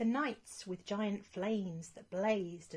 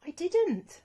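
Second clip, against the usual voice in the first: high, louder insistent denial; emphatic denial; 9 semitones higher, 8 dB louder than usual. Acted. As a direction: set them straight firmly. Knight correcting the crowd.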